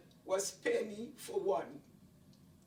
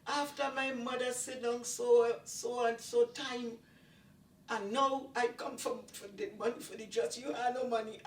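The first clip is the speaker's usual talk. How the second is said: higher, louder angry scolding of the lady; retold cussing out; 5 semitones higher, 4 dB louder than usual. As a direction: tell her off for not paying, heated. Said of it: "And I will start cussing".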